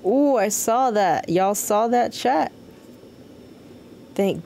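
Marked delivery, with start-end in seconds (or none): 0.0-2.5 startled. Real, not acted. Startled by something on screen.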